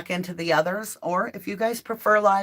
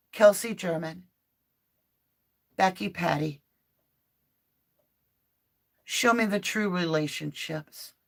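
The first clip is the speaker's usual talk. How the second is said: earnest prayer. Acted. Long prayer to archangels.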